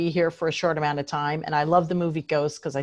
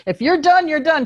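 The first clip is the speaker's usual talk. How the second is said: firm retort; 11 semitones higher, 7 dB louder than usual. Retold or imitated. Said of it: "'Cause I was like".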